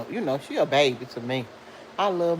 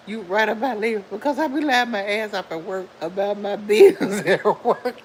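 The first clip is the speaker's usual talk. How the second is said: laughing while reading; 4 semitones higher, 4 dB louder than usual. Real, not acted. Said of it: "stop making me laugh".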